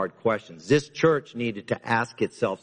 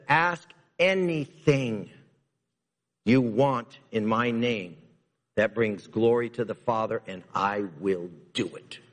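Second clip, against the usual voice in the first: voicing Jesus. Preacher voicing Jesus' words.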